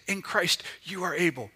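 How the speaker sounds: triumphant Holy Spirit voice, building in force; rising proclamation. Pretend. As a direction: preach it with growing fire. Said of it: "the Holy Spirit who says".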